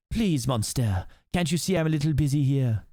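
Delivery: put-on French accent, brushing someone off; dismissive suitor with a French accent; generic French accent. French rescuer shooing the monster, generic French accent. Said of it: "that's my very generic French accent".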